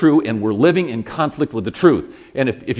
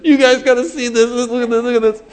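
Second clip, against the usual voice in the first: loud, high, urgent beckoning; gleeful God; 12 semitones higher, 8 dB louder than usual. Acted. God calls the angels to watch, high gleeful excitement. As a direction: call everyone over to watch the spectacle. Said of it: "got the angels again, said".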